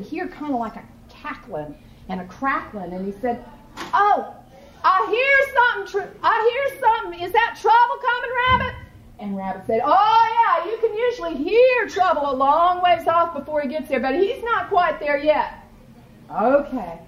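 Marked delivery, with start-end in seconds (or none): 3.9-8.7 high, lightly voiced sleepy gator. Gator asks Rabbit if trouble is near, high curious voice. 9.8-15.5 high, sly rabbit voice. Acted. Rabbit teases Gator that trouble is coming, sly high voice.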